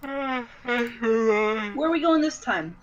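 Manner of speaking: slow, drawn-out in-character voice. Acted. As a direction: draw it out in character.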